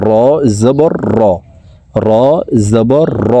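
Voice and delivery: "র" said as a heavy, rounded "ro"; letter drill with o-coloured "র"; spelling out Ra. Shown as a demonstration. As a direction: spell it out, landing on a full "র". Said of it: "র বলতে হবে".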